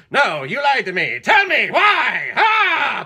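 high, full-volume melodramatic shouting; hammed-up furious outburst. Host mocking the lover's sudden rage at Betty Davis, furious shouting. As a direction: scream it like an overacted jealous lover. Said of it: "bipolar disease or something".

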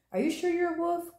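lightly put-on gruff voice; big gruff voice. A narrator's reading. Big wolf questions Little Bear, mildly gruff voice. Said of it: "gruff voice".

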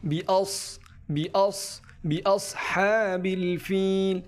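বি আস with a thick, heavy s; slow বি আস হ্যাবিল ফিল with a full sad. Shown as a demonstration. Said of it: "সদটা মোটা করে উচ্চারিত হবে".

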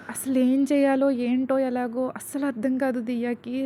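usual speaking voice

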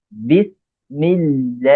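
বিসমিল্লাহ very slowly, syllable by syllable; pronunciation demo. Shown as a demonstration. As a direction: draw out the doubled l and long "laah" in বিসমিল্লাহ. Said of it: "এইভাবে উচ্চারণ করার চেষ্টা".

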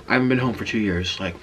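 chewing while talking; speaking around food; mouth full of pizza. Real, not acted. Seen 1: Bites slice at -1; cheeks bulge, chewing throughout the words.

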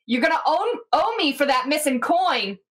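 mock-irate call, not a full shout; calling over the shoulder. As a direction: toss a warning back as you leave. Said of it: "calls over their shoulder".

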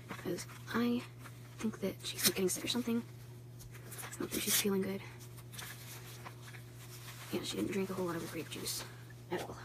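hushed voice. Real, not acted. Hushed near sick baby.

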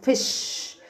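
"fish" in one unbroken beat; said as one syllable. Shown as a demonstration. Teacher shows pupils one-syllable fish, said whole. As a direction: say "fish" all at once. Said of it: "بقولها على بعض".

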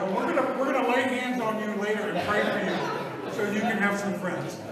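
loud teasing joke. Pretend. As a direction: tease them playfully. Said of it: "I'm teasing".

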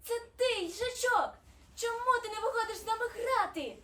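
high, loud snowflake voice; high-pitched, eager storybook character; lively snowflake. A narrator's reading. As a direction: call out brightly as a playful snowflake. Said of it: "і сказала".

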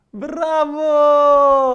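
drawn-out praise. Acted. Host praising kids.

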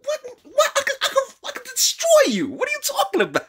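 squeaky high falsetto, laughing through the words; mock threat. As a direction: ham up the offended tough guy, cracking up.

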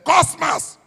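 mother shouts his name loud and high; sharp call. Retold or imitated. Mother in the car calling her son, sharp shout.

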